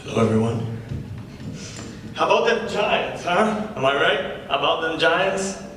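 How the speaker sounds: lightly voiced comedy-club patter; stand-up comic. The comic opening his set to the crowd, casual comic patter. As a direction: work the crowd with an easy opener.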